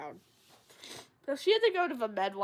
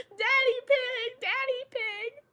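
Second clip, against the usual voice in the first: slow, higher singsong repeat; insistent mock delirium; 12 semitones higher, 6 dB louder, slower than usual. Feverish girl insisting on the nickname, slow and high. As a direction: drag each name out slowly like a dazed child.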